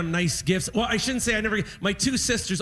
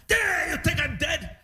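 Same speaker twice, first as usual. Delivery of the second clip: mock angry dad; 7 semitones higher than usual. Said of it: "He was so mad".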